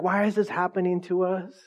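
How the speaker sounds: mock frustrated. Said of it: "just frustrated".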